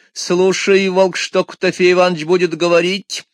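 high, sly calling vixen; calling fox voice. Acted. Fox calls to wolf.

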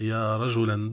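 رجلًا said "rajulan", with final -an; accusative ending. Shown as a demonstration. Blind man calling to any passerby, accusative -an on رجلًا. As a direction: sound the -an clearly on رجلًا. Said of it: "يجب فيها النصب".

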